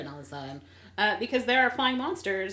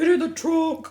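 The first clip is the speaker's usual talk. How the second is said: high urgent yell; shout; 9 semitones higher, 9 dB louder than usual. Retold or imitated. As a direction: yell it at him to get in.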